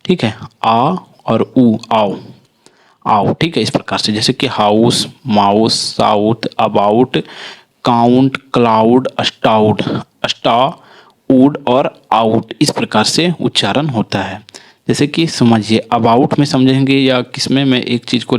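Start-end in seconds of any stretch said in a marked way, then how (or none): 4.5-12.5 ou in हाउस and माउस said as a clear आओ glide; careful word demo. Shown as a demonstration. Teacher modelling the ou sound for learners. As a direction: stretch out आउट with a full आओ sound. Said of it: "उसका उच्चारण आओ हो जाता है".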